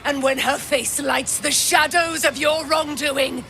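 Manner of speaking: zealous declaration; rising proclamation. Acted. Paladin's declaration in battle.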